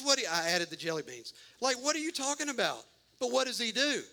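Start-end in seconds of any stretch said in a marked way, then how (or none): 1.6-2.8 higher, fast, but less squeaky; a calmer rerun of the same protest; milder disbelief. Retold or imitated. Preacher repeating Gideon's protest with milder disbelief.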